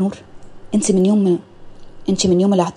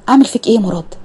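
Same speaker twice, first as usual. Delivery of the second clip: half-joking exasperation at Murad; exasperated outburst; 2 semitones higher than usual. Acted. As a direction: blow up with اعمل فيك ايه. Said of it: "اول ما فتحته اتغاظت".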